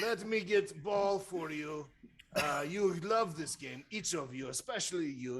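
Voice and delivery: lightly put-on accented character voice; Bruno. Game master as Bruno hands out the ball, character voice. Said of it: "in a slightly different voice".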